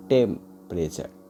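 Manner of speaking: temperature drawn out very slowly, syllable by syllable; slow syllable demo. Shown as a demonstration. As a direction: stretch temperature out so each beat is heard. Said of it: "टेम मतलब stress". (temperature को बहुत धीरे, एक-एक syllable खींचकर बोलिए)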